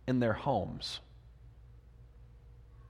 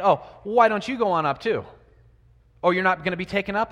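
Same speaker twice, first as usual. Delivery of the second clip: mock taunt, a little louder and livelier; 2 semitones higher, 5 dB louder, faster than usual. Young men taunting Elisha as he passes, mocking. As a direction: lightly imitate jeering young men. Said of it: "these guys are mocking him".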